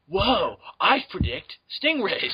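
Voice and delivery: slow stoner surfer drawl; Keanu Reeves impression. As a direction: stretch it out like a dazed surfer. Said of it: "sounds like fucking Keanu Reeves".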